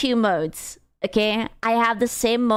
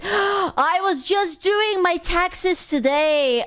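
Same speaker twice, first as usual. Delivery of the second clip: gasp, then slow, high and shouted; a horrified outburst about taxes; shocked gasp; 6 semitones higher, slower than usual. Real, not acted. Shouting in shock when a chatter mentions taxes.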